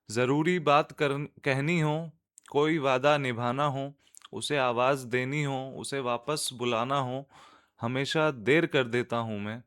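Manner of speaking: measured, lilting Urdu verse reading; nazm recitation. Acted. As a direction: recite line by line, letting the refrain settle. (नज़्म सुनाने का अंदाज़)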